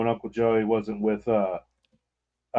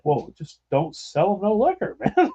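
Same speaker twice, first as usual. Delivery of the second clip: laughing advice; 5 semitones higher than usual. Retold or imitated. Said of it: "I'm like".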